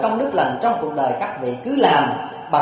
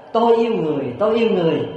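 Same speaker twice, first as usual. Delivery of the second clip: high, lifted call into the forest; retold boy's raised-voice call; calling out loudly; 4 semitones higher, 3 dB louder than usual. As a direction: cry it out for the woods to hear. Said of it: "la lớn lên rằng".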